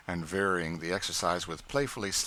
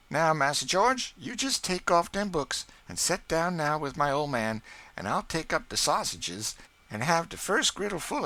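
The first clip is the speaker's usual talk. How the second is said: put-on Aunt Chloe, higher and louder, shooing children; busy cook ordering kids aside, raised voice; Aunt Chloe bustling; 10 semitones higher, 5 dB louder than usual. A narrator's reading. Cook clearing the kitchen for supper, brisk and raised.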